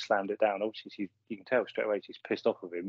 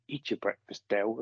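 cold, clipped "Eat your breakfast" turned away from him; really spiteful. Retold or imitated. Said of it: "Again, really spitefully".

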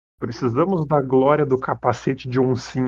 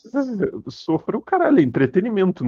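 crying with laughter; 6 semitones higher than usual. Real, not acted. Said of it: "Eu tô chorando de rir".

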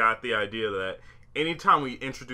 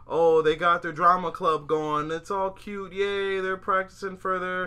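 mock cheerful fan; 8 semitones higher, 3 dB louder, slower than usual. Mimicking cute happy scenes.

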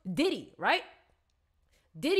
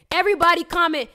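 shouted, high announcement; hyped shout to the viewers; loud call-out; 6 semitones higher, 10 dB louder, faster than usual. Real, not acted. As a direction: belt it out to the chat. Excited announcing of comments.

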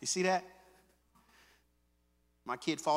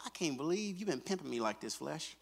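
soft self-rebuke; 6 dB quieter than usual. Shown as a demonstration. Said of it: "You should be looking at yourself".

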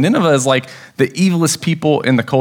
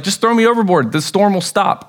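"Just throw me overboard" pitched much higher, pleading; insistent Jonah; 6 semitones higher than usual. Retold or imitated. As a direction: push the repeated plea up high and urgent.

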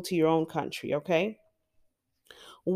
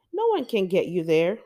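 ordinary talk, nothing marked

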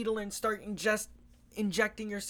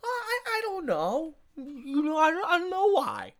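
mock Trump; 9 semitones higher than usual. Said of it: "the president said".

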